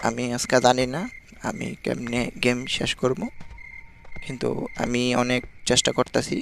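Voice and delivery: slow, low, hushed delivery with long pauses; speaking softly. Real, not acted. Gamer retrying under the noise limit, slow and very soft. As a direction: pick the words out quietly, barely voiced. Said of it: "আস্তে আস্তে কথা কইতে হবে".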